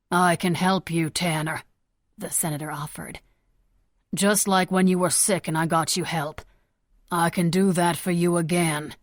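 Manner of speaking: calm, steady reassurance. Acted. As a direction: talk him down gently. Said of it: "he said calmly".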